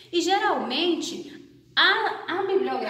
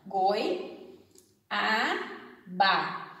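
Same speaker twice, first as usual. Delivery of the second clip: "goi, a, ba" com pausa entre cada sílaba; separado em sílabas; 6 semitones lower, much slower than usual. Shown as a demonstration. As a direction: diga goi... a... ba, sílaba por sílaba, mais grave. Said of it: "Eu vou separar a sílaba". (silabando "goi, a, ba" pausadamente)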